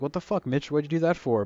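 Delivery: a touch of an angry retort, as the swearing version; mock angry retort. Kid telling off Mitch, mildly angry and swearing. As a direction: snap it out like a kid annoyed at a bully. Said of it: "But I didn't say fuck".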